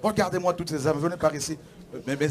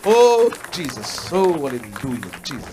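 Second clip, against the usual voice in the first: ecstatic cry; 8 dB louder, slower than usual. Real, not acted. Pastor moved by converts coming forward, loud slow ecstatic cry. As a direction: let it ring out in joy. Pastor rejoicing at baptism candidates.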